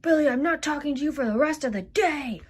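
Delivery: high-pitched cross declaration; angry. Acted. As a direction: announce the silent treatment, still fuming. Storming off angry at Billy.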